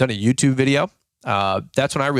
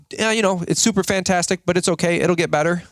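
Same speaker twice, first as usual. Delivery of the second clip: higher, bright-sounding upbeat answer; cheery mock reply; 6 semitones higher than usual. A man answering a friendly greeting, with mock cheer. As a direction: play the overly sunny stranger. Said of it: "And you go".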